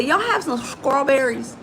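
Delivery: "strawberries" said as scrawberries; Southern local pronunciation. Retold or imitated. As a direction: imitate local talk, skr opening "strawberries". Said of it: "here in the South".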